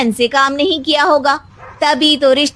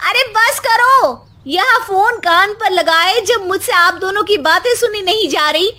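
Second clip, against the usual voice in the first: shouting; 4 semitones higher than usual. Acted. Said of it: "वो चिल्लाते हुए बीच में बोलती है".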